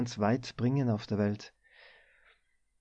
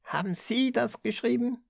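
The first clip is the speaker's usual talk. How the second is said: much higher accusing yell; shouting; 11 semitones higher than usual. A narrator's reading. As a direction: thrust the invoice at him and shout. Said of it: "schrie er".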